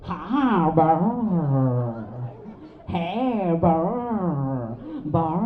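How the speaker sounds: low, gruff dog barks; barking dog. Retold or imitated. Rajasekhar's house dog barking, low barks. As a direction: bark low like an old guard dog. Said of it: "ఇలా అరుస్తుంది".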